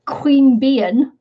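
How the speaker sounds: "Queen Bian" with first word said like "queen"; attempted pronunciation. Shown as a demonstration. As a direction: try out "Queen Bian", QUEEN leading, unsure. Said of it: "how do you say that?".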